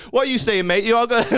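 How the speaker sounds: high, loud mock friendly greeting; boisterous guest. Host imitates guest greeting heckler from stage, high and boisterous.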